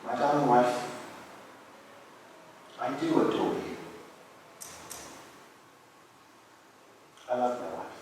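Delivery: quietly heartbroken love letter to a dead wife; tender grieving letter. Acted. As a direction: read it like a widower's love letter, holding back tears. Reads the love letter aloud.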